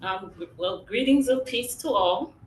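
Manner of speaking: muffled voice from a small closet. Real, not acted. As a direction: speak muffled, as if boxed in. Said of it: "If I sound kind of muffled".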